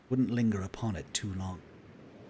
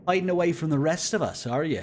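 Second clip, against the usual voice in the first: glib, teasing retake, raised and louder; 8 semitones higher, 7 dB louder than usual. Acted. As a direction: throw the line off glibly. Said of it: "A little bit lib in his voice".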